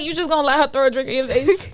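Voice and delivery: giggling egging her on; instigating laughing. Retold or imitated. Girl egging on another girl to fight, laughing. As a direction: laugh while stirring up a fight. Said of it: "I, I was like".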